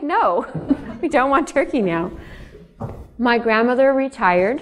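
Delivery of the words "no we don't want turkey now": laughing through a higher playful reply; amused mock refusal. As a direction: giggle while turning her down. Family teasing grandma, laughing.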